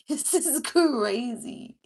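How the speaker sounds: laughing loud. Real, not acted. Repeats reaction with laugh.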